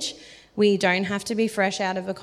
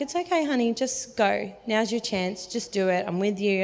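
gentle encouragement. Retold or imitated. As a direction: calmly coax someone nervous to go. God gently urging her on.

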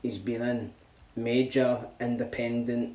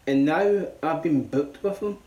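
excited; 4 semitones higher, 5 dB louder than usual. Acted. Hyped announcement.

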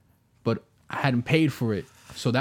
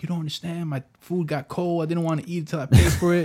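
higher, mock-passionate plea about his cold food; hammed-up pleading, pitched up; 5 semitones higher than usual. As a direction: play up the outrage at the Taco Bell counter. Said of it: "totally passionate".

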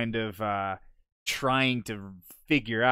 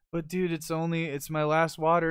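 higher mock protest; imitated selfish dude; 6 semitones higher than usual. Stingy stranger guards last water, mock protest. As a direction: lightly mimic someone reluctant to share. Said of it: "this one dude was a dick".

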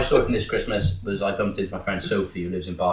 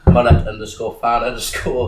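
laughing while reading; 5 dB louder than usual. Real, not acted.

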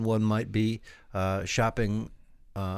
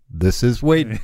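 loud comedic impersonation of a salesman; loud, hammed-up phone greeting; Wade Anderson; 8 dB louder, slower than usual. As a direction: boom it out as a comic salesman caller. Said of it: "that's a good comedic impersonation".

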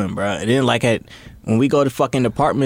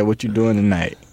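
lower-pitched would-be sexy line; smooth seductive come-on; 4 semitones lower than usual. Retold or imitated. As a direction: say it like an R and B crooner hitting on someone. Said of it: "Why you say it like that?".

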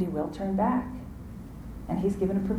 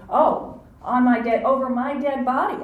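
vowing denial; 5 semitones higher, 4 dB louder than usual. Acted. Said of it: "making a promise to say".

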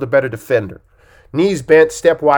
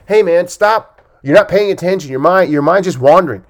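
mock yelling at people; 5 semitones higher, 5 dB louder than usual. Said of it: "you can't yell at people in your meetings".

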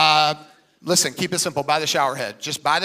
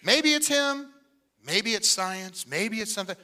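mock uncertainty; 4 dB quieter than usual.

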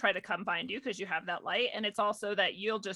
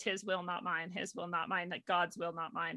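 calm mantra; 3 semitones lower, 5 dB quieter than usual. Retold or imitated. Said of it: "I have a friend who says".

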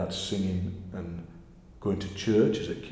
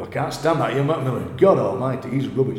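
mock disgusted outburst, louder; exasperated critic; 4 semitones higher, 8 dB louder than usual. Imitating listeners who can't stand him, mock exasperation. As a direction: imitate a fed-up radio hater.

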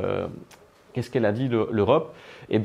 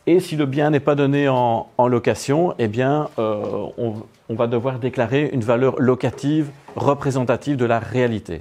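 louder, projecting to the back; to someone hard of hearing; 2 semitones higher, 4 dB louder than usual. Real, not acted. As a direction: speak up so the room hears. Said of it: "Parlez plus fort?".

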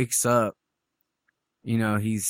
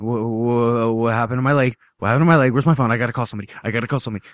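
mild imitated panic, stammering start; 3 dB louder, much faster than usual. Retelling a man finding his leg gone, mild panic. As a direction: tumble through repeated questions with mounting urgency. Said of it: "him starting to panic".

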